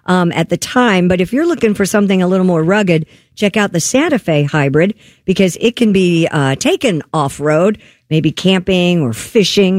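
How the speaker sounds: upbeat radio endorsement; sponsor ad read. Acted. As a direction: sell it conversationally, stretching the key words. Reads a car sponsor spot.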